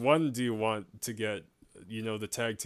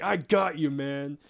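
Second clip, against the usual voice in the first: gloating; 4 semitones higher, 4 dB louder than usual. Retold or imitated. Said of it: "And he's like".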